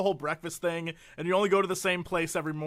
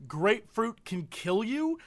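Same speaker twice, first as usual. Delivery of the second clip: ominous headline; 4 dB quieter, slower than usual. Retold or imitated. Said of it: "the headlines all were".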